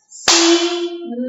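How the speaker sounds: "Sino" in two long, separated beats, si... no; syllable by syllable. Shown as a demonstration. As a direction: clap out "Sino", holding each syllable high. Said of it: "Vamos bater palminha?".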